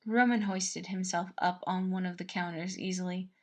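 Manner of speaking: ordinary delivery, nothing marked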